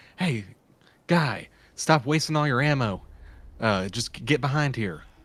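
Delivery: loud stage whisper. Player, in character, calling out to a nearby guy: whisper-yell. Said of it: "I do one of those kind of like whisper yells".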